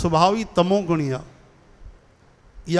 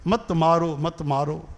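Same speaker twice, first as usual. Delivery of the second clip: mildly pleading babies; 4 dB quieter, slower than usual. Acted. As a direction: plead weakly, trailing off quietly. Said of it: "ओहो, रोअनि पिया". (ॿारनि जी धीमी रुअणहारकी मिन्नत)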